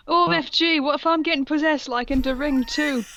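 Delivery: melodramatic panic. Acted.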